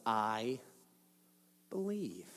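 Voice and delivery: hushed, reverent confession of faith; awed whisper. Retold or imitated. Ladies' response to the risen Jesus.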